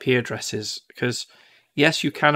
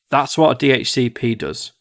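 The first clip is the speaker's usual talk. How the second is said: laughing; 4 dB louder than usual. Real, not acted. Laughing at own explanation.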